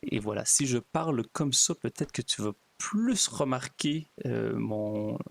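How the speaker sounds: put-on pastor's demonstration of a Québécois accent; imitated Québécois accent. Pastor showing Québécois woman he can copy her accent, imitated Québécois accent. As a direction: put on a Québécois accent, slightly slowed in places. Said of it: "très bon pour ... d'imiter votre, euh, accent".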